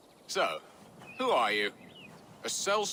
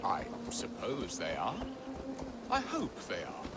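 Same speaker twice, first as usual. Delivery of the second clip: a doubtful murmur under the breath; hushed aside; 5 dB quieter than usual. Acted. Earl doubting his people's happiness, murmured to himself. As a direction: say it half to yourself, barely voiced.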